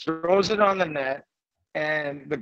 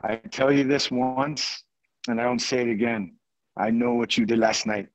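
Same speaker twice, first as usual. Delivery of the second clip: put-on low, measured French-accented warning; imitating a stern French-accented teammate; attempted French accent; 4 semitones lower than usual. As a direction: lay down the law in a rough French accent. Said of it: "trying to do a French accent".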